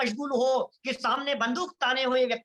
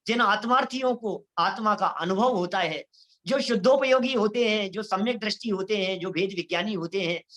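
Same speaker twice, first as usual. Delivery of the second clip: normal talking voice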